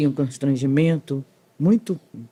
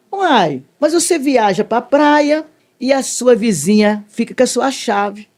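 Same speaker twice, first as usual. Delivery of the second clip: higher, slow, pointed comeback; triumphant retort; 5 semitones higher, slower than usual. Retold or imitated. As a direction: lay it out slowly, savouring the point. Triumphant recollection to the accuser. (réplica triunfante, aguda e pausada)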